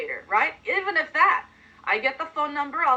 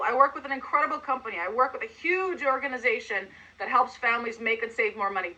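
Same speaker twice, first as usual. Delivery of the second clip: excited. Shown as a demonstration. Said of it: "I'm excited and I'm enthusiastic".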